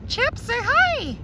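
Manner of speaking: high, slow coaxing voice; high pet talk. Real, not acted. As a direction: coax the pet slowly, way up high. Talking to her pet.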